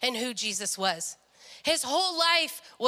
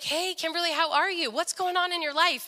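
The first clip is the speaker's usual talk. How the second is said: imitated friendly greeting, pitched higher; friendly interest; 4 semitones higher than usual. Dad's changed friend greeting the daughter, lightly imitated as nice. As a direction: ask with real interest in her life. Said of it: "Why are you being nice?".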